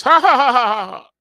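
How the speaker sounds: loud, high fake mocking laugh. Officials laughing in the analyst's face, mock laughter. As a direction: ham up a scornful ha-ha-ha. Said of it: "they laughed in his face".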